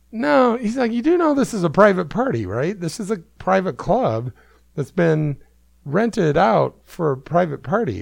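a firm Aussie-Cockney no; imitating an Australian accent. Doorman insisting it's a private party, mock Australian accent. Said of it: "combination of Australian and Cockney".

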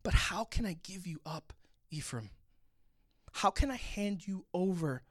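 pleading, tender divine lament; a touch of heartbroken compassion; compassionate. Acted. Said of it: "the part that's filled with compassion".

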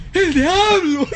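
high, drawn-out comic cry; mock scream. Podcaster imitating a man who saw Satan, mock scream. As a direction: cry out in hammed-up alarm. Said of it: "el vato gritó".

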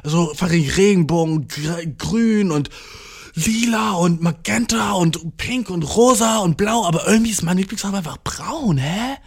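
a hint of a bewildered child; lightly voiced seven-year-old. Seven-year-old complaining to mum, lightly voiced puzzled child. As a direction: lightly play a kid drawing out the list. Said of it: "So ein Siebenjähriger ist so".

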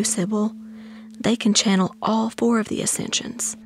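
hushed, high-pitched whisper; high, whispery storytelling aunt; Aunt Ruby Bee. A narrator's reading. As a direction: whisper it like a reverent guide to a child. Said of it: "In a low whisper".

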